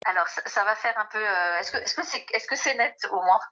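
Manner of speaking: distant speakerphone voice; phone held away. Real, not acted. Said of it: "je mets le haut-parleur".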